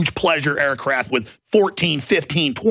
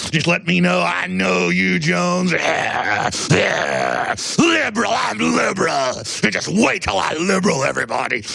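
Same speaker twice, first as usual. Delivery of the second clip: hammed-up outraged liberal; mock shrill liberal; 3 semitones higher than usual. Mocking guests at parties.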